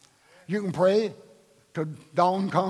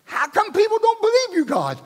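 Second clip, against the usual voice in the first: much higher, puzzled angel voice; angels asking; 4 dB louder than usual. Retold or imitated. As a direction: ask it like a bewildered angel. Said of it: "Angels looked and said".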